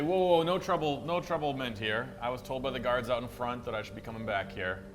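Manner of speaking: calm the guard down in a rush; hammed-up nervous placating; placating whoa. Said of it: "Well, I say".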